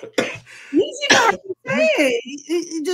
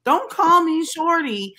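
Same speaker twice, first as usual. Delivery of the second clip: slow, higher-pitched telling-off; firm rebuke; 4 semitones higher, 3 dB louder, slower than usual. Retold or imitated. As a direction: set him straight, drawing out each word. Retold firm rebuke to coworker.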